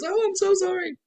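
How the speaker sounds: high, hammed-up fake sorry; mock a fake apology; imitating a fake tearful apology; mock crocodile tears. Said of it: "crocodile tears".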